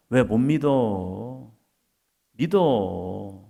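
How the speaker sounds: usual speaking voice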